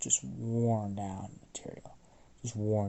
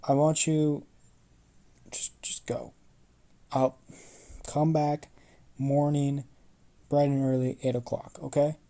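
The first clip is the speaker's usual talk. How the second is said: louder, higher bossy commands; loud order; 3 semitones higher, 6 dB louder than usual. Acted. Smith sending Astrid off loudly, bossy. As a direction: bark out the schedule.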